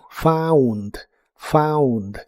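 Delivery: "found" with an "au" glide; au sound. Shown as a demonstration. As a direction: say "found" with an open "au". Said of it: "se pronuncia como au".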